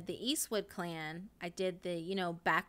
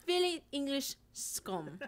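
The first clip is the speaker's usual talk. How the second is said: put-on slow, higher Australian accent; 5 semitones higher, slower than usual. Streamer finishing the criminals joke, slow Australian accent. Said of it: "my Australian one".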